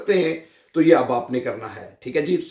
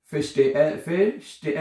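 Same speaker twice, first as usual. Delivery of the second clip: slow drilled word; much slower than usual. Shown as a demonstration. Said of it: "teacher drills word slowly".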